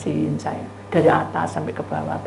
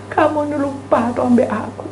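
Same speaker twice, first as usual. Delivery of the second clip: high, tearful reproach; imitated blubbering plea; mock whimpering; 6 semitones higher than usual. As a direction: whine it like someone about to cry. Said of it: "Mewek-mewek itu".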